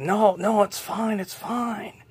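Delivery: high, light voice waving off concern; squeaky no-no-it's-fine reassurance; wife brushing it off. Acted. Wife tells husband she's fine, high and dismissive.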